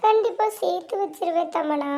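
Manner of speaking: sweetly acted reassurance to the rival; fake sincere promise. Scheming sister promising Tamana, faked sincerity. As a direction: put on a falsely sincere promise. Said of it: "என்னம்மா நடிக்கிறா அக்கா".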